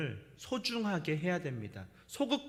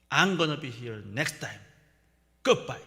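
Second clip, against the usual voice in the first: slow stiff English goodbye; 5 semitones lower, much slower than usual. Retold or imitated. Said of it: "제가 막 화가 나갖고 그냥 나왔어요".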